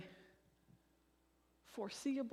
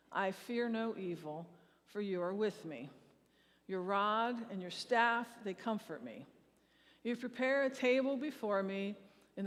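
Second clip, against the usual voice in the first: measured, reverent reading of the psalm, paced with the room; unison psalm recitation. Real, not acted. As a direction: lead the congregation through the psalm line by line. Congregation recites Psalm 23 together.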